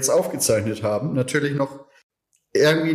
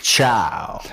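whispered; 4 semitones lower than usual. Acted. Goodbye whispered.

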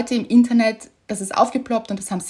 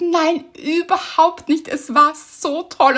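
higher, gushing reassurance; eager reassurance; 6 semitones higher, slower than usual. Retold or imitated. Retelling how she reassured the official, higher and eager. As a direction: reassure her brightly, slowing down at the end. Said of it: "Ich hab gesagt".

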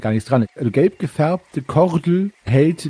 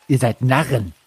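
mad laugh. Acted. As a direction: laugh them off as fools. Madman laughs at them.

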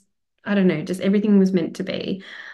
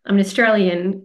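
amazed; 3 semitones higher than usual. Retold or imitated. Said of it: "She's like".

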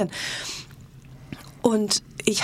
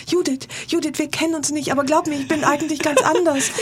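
higher, over-eager bimbo imitation; 7 semitones higher than usual. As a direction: chase after her like a fawning bimbo. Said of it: "so im Tussengang hinterher". (hohe, übereifrige Tussenstimme)

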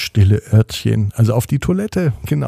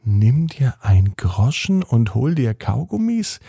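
put-on a boy puzzling over odd words; puzzled repeat. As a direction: repeat "Kaugummis" as a baffled question.

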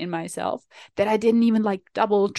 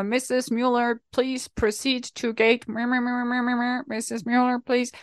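soft, lightly voiced gate announcement, slowing on gate; airport announcer; 2 semitones higher, 4 dB quieter than usual. Mocking an airport call for a late passenger, lightly voiced announcer. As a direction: mumble it like a bored PA announcer. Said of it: "when I'm at the airport and people get called out".

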